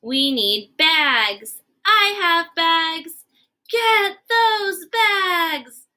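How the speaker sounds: slow and emphatic, rising to a cry on the last line; slow, dramatic demand. Acted. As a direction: stretch each word out with mock urgency. Gerald slowly demands bags.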